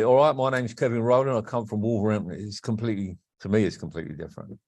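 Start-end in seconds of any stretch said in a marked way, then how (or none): 0.0-2.3 Cockney-tinged London accent, lightly done. Shown as a demonstration. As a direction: say "All right, my name's Kevin Rowland" the London way. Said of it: "and London would be".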